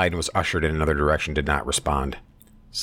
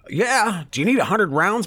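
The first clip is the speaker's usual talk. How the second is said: high, hammed-up yelled question; imitating Biden shouting at the worker; mock shout; 3 dB louder than usual. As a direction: belt it like an angry old man. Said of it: "he shouted again".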